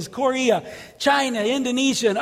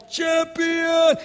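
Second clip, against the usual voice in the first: higher shouted champion; shouted climax; 5 semitones higher than usual. Retold or imitated. Actor at the climax of the play, shout. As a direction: call it out like the play's end.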